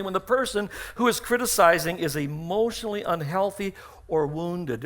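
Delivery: ordinary talk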